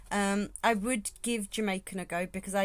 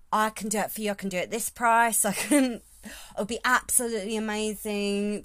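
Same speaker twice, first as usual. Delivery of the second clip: put-on louder, pushy Essex salesman accent; 5 dB louder than usual. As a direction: hand out your card like a chirpy Essex salesman. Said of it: "I do an Essex accent".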